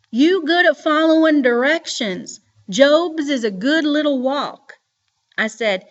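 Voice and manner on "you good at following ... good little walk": stern grandma, louder. A narrator's reading. Grandma repeating question sternly.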